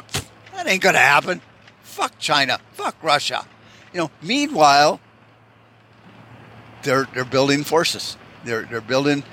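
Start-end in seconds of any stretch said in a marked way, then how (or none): 0.0-3.5 smug dismissal. Retold or imitated. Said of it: "sit back in America smoking your cigars and going".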